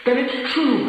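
high, loud anguished cry; husband crying out in raw shock; cried out. A narrator's reading. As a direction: cry it out in disbelief. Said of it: "he cried".

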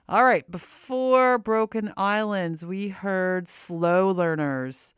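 talking through a face mask; muffled voice behind a cloth mask. Real, not acted. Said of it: "If I sound muffled, it's because I do have a mask on".

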